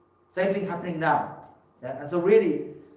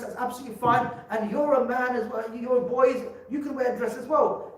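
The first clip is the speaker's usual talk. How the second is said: lightly voiced, higher mock teacher talking to boys; a hint of a cheery visitor lecturing kids; mocking the school visitor; 5 semitones higher than usual. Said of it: "a man dressed up as a woman coming into a school and saying to children".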